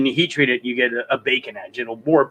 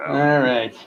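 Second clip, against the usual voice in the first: whispering. Real, not acted. Muttered aside while searching.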